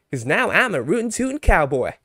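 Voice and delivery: put-on loud Southern cowboy accent; Goku. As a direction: ham up a high, Southern cowboy twang. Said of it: "he would have a southern accent".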